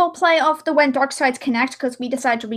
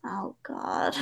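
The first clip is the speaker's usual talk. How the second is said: breathless whispered "Oh, God"; whispered gasp; 14 dB quieter than usual. Retold or imitated. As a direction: whisper it in shock. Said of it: "she's like".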